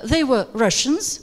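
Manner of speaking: "Russians" ends on a rise; rising list tone. Shown as a demonstration. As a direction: leave "Russians" hanging upward for the next item. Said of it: "rising tone".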